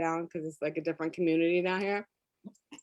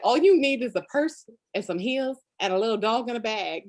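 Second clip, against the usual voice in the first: lightly imitated Florida local accent, louder; mock local accent; 2 semitones higher, 5 dB louder than usual. Florida locals teasing a city newcomer, lightly imitated local accent. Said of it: "what they said in that accent".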